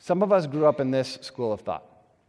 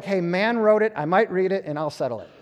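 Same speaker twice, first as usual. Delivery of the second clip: casual dismissive voice; 2 semitones higher than usual. Retold or imitated. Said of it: "they're more like".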